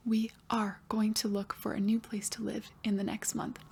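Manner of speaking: faint far-off whisper; barely audible student whisper. Pretend. Teacher voicing student answer.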